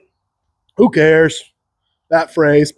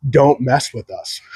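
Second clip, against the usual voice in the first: low tough Texan; 4 semitones lower, slower than usual. Retold or imitated.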